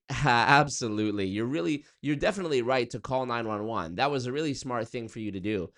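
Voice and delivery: a hint of an upbeat chatbot voice; lightly mock a cheerful AI assistant; AI operator answering a 911 call, mock chipper; chirpy AI operator. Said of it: "the A I on the other end is like".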